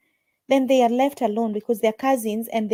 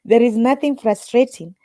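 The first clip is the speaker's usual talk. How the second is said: louder emphatic restart; 7 dB louder than usual. Real, not acted. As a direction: repeat it much louder. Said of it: "laughs, then repeats louder".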